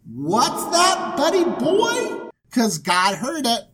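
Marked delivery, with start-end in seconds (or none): 0.1-2.3 high, drawn-out sing-song question; playful prompting. Retold or imitated. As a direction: coax it out, teasingly. God acts out overhearing Abram.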